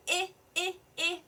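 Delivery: "I" as short ih, repeated separately; sounding out short I. Shown as a demonstration. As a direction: repeat "I" as the short vowel in "insect". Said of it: "letter I sound".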